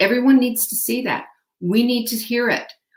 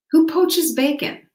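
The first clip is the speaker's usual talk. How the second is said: incredulous; 8 semitones higher, 4 dB louder than usual. Real, not acted. Mock outrage at poached bacon.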